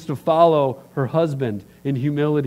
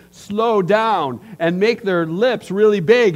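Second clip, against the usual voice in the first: mimicking slow, over-enunciated speech; higher, drawn-out, big-lipped articulation; 5 semitones higher, 4 dB louder, slower than usual. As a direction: talk as if to a non-speaker. Imitates people slowing down, big lips.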